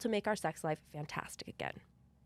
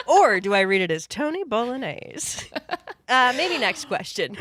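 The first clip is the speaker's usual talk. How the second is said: louder, giggling question; laughing through it; 4 semitones higher, 9 dB louder than usual. Real, not acted. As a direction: ask it while cracking up. Laughing at the Tony voice idea.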